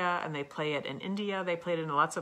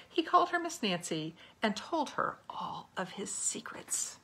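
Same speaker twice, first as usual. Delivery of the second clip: whispered secret; 4 semitones higher than usual. A narrator's reading. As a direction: breathe it like a secret.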